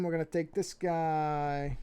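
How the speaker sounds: slow New York accent. Real, not acted. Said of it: "slipping into my New York accent".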